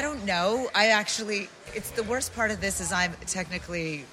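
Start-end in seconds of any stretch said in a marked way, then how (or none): 1.7-4.0 distant, off-mic voice; far from mic. Real, not acted. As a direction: speak from away from the microphone. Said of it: "Get closer, get closer to the microphone".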